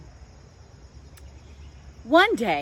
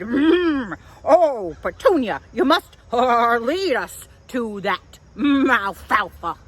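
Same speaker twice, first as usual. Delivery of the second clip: louder, eager oldest goat begging; hungry goat pleading with delight; excited goat voice; 4 dB louder than usual. Acted. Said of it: "Billy was over the moon excited".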